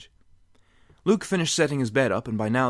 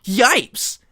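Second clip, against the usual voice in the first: startled yelp; 13 semitones higher, 10 dB louder than usual. Acted. Door bursts open.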